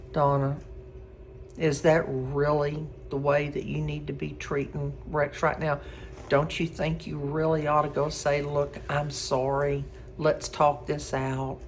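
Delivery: gently talking herself down; self-talk in mirror. Retold or imitated. To herself in the mirror, soft and low. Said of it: "I'm looking in the mirror and I'm saying".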